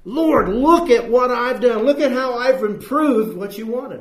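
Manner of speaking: a self-pleased Cain presenting his offering; beaming boast. Acted. He was beaming.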